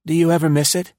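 high, wistful question; old spy longing for the village; wistful Densham. A narrator's reading.

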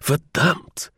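heartfelt curse; fervent. Acted. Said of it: "he declared fervently".

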